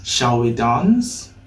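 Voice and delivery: slow, linked "Shall we dance?" with a weak "we"; slow model sentence. Shown as a demonstration. Teacher modelling the sentence slowly for learners. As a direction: say it slowly so students can copy. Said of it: "It sounds very okay".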